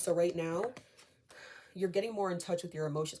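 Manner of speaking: a little breathless while speaking; out of breath. Real, not acted. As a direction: talk as if slightly winded. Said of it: "I don't know why I'm out of breath".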